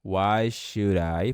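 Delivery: slow "Why should I" with the D flapped to R; should with a tapped R. Shown as a demonstration. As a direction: link "should I" as "shurai". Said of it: "esse D vai ficar com som de R". (devagar, "should I" com D como R)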